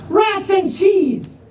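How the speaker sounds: high, slow cry of rats and cheese; rock's exclamation. Acted. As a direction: stretch it out like a cartoon curse. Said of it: "I'm not sure why he says that".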